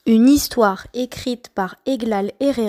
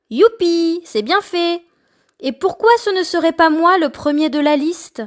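higher, gleeful cheer; gleeful cry; 5 semitones higher than usual. Acted. Letter Y cheering as Z is punished. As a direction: crow over Z's punishment. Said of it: "Y cria".

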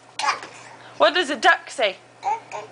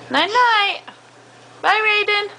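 sing-song goodnight; 7 semitones higher than usual. Real, not acted. Parent's sing-song bedtime goodbye.

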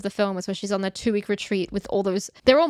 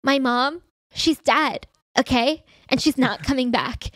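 a touch higher, earnest mock grief; lightly voiced dramatic TikTok girl; parodying an overwrought confession; TikTok impression; 4 semitones higher than usual. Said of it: "where she's like".

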